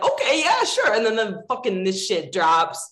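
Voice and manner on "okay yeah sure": lightly imitated, pitched up; a higher put-on voice for the reply; retold casual agreement. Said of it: "he's like".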